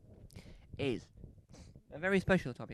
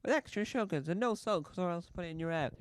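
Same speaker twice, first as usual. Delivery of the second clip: mock threat. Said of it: "I don't sound threatening enough".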